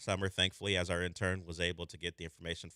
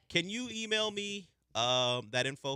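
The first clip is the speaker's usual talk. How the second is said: calling out; 9 semitones higher, slower than usual. Real, not acted. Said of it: "I have to yell at my intern".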